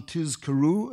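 "Tizkaru" said slowly with a clear z; stress on the Zayin. Shown as a demonstration. Lecturer showing the Shema's one careful word, emphatic z. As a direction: draw out "Tizkaru", voicing the z. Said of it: "an emphasis on the Zayin".

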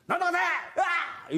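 high mock wail of a child; high, hammed-up child crying; imitating a crying kid. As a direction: play a bawling toddler. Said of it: "言うやんか".

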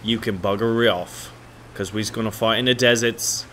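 badly faked British soldier's accent; terrible British accent. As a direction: put on a hammed-up British accent. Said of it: "that's just a terrible accent".

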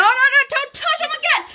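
high, laughing warning; laughing angry plea. Real, not acted. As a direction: warn him through laughter. Brother touching his toys.

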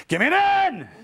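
high, full-out cheerleader yell; top-of-voice yell. Retold or imitated. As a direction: yell the cheer as loud as you can. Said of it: "I yelled at the top of my voice".

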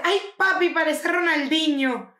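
mofa aguda y fuerte, lenta, imitando a Camila; burla entre risas. Retold or imitated. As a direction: grita la burla alto y alargada, riéndote. (burla aguda y fuerte, lenta)

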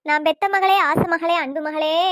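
mourning wail. Acted. Mother calling on her beloved daughter, melodramatic wail. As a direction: stretch each endearment into a lament. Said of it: "ஒப்பாரி வச்சுட்டு இருந்தேன்னு".

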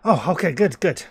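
mild acted shout; shouting from afar. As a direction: call back in acknowledgment. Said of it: "again, he's shouting".

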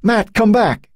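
high, urgent call. A narrator's reading. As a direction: call him back desperately. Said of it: "she called".

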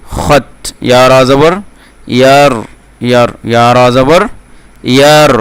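slow, measured syllable-by-syllable recitation; Quran spelling drill. Shown as a demonstration. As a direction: draw out each syllable for learners to repeat. Teacher models spelling drill.

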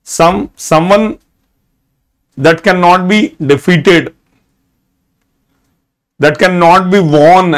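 very slow definition, word by word; dictating a definition; slow dictation. Shown as a demonstration. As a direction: spell out the meaning slowly. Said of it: "Jot down all these words".

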